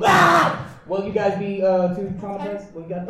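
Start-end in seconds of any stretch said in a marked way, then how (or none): 0.1-0.7 metal scream. Shown as a demonstration. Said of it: "If I decide to go".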